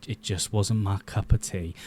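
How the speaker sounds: slipping into an American accent; brief, low American accent. Real, not acted. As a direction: say it with an accidental American twang. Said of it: "why I did that American accent".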